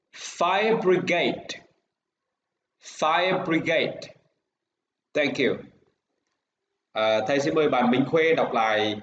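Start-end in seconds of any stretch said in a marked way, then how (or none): 0.1-1.6 slow model. Shown as a demonstration. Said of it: "read again". 2.8-4.1 slow model. Shown as a demonstration. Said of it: "read again".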